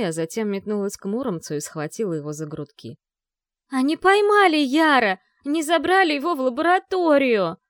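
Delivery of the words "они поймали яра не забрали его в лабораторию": much higher, louder frantic shouting; frantic outcry. A narrator's reading. Vi grabbing Muromets by the collar, frantic shouting. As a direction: shake him as you shout it.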